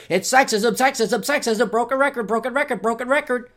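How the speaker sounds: a hint of a preachy professor, drilling slogans; mocking professor voice. Scene: voicing McGill professors drilling slogans into her, mock preachy. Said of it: "McGill University told her".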